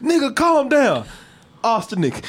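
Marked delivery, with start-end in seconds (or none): 0.0-1.1 drawn-out mock scold; slower emphatic scold. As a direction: lean on it slowly. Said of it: "they come in".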